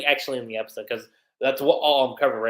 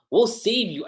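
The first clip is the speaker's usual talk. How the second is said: whispered promise; 6 semitones higher than usual. Retold or imitated. Makarov reassures dying Wraith.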